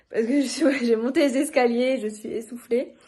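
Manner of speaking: out of breath from the stairs; talking while catching breath; climbing stairs. Real, not acted.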